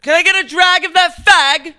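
put-on loud, high shouted British accent. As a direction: yell it like a rowdy London bloke in a British accent. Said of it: "You start saying it a ton".

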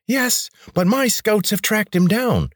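smug rebel leader, high voice, slow; high grating rebel leader. A narrator's reading. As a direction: drawl the news in a high grating voice.

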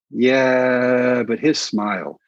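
long, drawn-out yeah; playfully imitating a smitten mother; imitated swooning mom. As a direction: stretch it out in mock admiration. Mom swooning over actor, retold.

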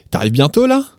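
casual question lifting up to "là"; emphatic là. Shown as a demonstration. Teacher adding là for emphasis, casual rising question. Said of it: "putting an emphasis on the sentence".

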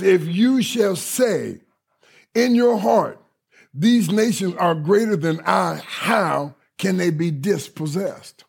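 slow, weighty reading of the verse; scripture reading. Acted. Pastor reading the verse to the congregation, slow and solemn. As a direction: let each phrase land slowly.

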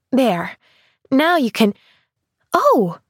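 rising to a delighted oh; sudden excited gasp of joy; breaking off excitedly. Acted. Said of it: "she broke off excitedly".

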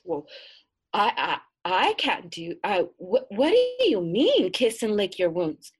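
put-on girl aghast, stumbling over words; shocked stammer. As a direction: sputter it out in disbelief.

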